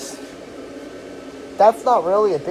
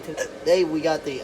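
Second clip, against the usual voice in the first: hiccups. Real, not acted. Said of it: "I'm hiccuping".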